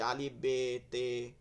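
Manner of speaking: বে and তে said with an Urdu e vowel; old maktab way of reading বে, তে; Urdu-style majhul reading; Urdu-style letter names. Shown as a demonstration. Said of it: "এভাবে পড়ছেন মনে হয়".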